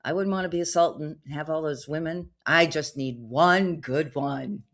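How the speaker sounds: a hint of an eager suitor denying it; protesting scammer. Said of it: "And he said".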